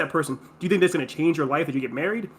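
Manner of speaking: acted mother, insistently talking sense into someone; logical mom. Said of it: "verbalizing her logic".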